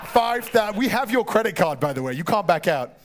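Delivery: running the bidding like a lightly played auctioneer. Host taking bids from the room and online, in a mock auctioneer voice. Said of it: "He's got a great voice".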